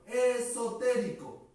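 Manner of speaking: esotérico spelled out slowly; slow careful stress. Shown as a demonstration. Teacher to student, slow stressed esotérico. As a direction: lay out esotérico syllable by syllable. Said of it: "mira, mira, mira".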